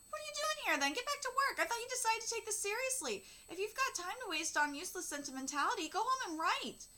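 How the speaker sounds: father harshly sends his daughter back to writing; stern scolding. Acted. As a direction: snap at her to get back to work.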